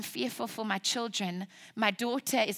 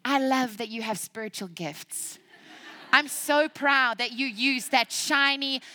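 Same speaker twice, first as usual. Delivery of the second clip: gently teasing God; 2 semitones higher, 5 dB louder than usual. Acted. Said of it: "our Father's saying".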